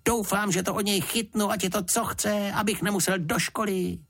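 put-on a boy hoping to skip school; eager boy. A narrator's reading. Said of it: "zvolal Jonatán".

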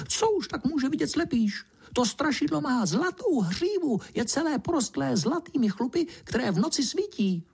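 high little mouse voice spinning a spooky tale; high mouse voice relishing the scary story; field mouse telling. A narrator's reading. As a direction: tell it like a breathless gossiping mouse. Mouse tells of the ghost.

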